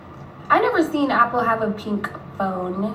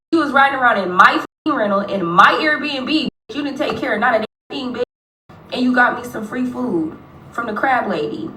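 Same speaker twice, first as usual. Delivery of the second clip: retold telling-off; 3 semitones higher, 4 dB louder than usual. Telling off the woman about the rental, mock angry. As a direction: put her in her place, hammed-up. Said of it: "I said".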